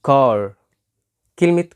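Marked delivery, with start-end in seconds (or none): 0.1-0.5 "car" with the final R sounded; regional British car. Shown as a demonstration. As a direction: say "car" as "carr". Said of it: "في أماكن تانية في بريتن".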